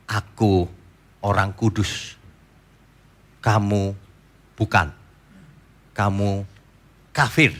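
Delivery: smug Pharisee. Retold or imitated.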